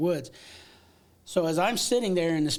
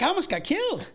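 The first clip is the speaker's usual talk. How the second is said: mock panic. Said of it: "It's like".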